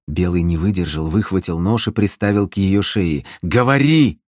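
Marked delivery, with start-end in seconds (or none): 3.4-4.2 angry command. Acted. Knife at her throat.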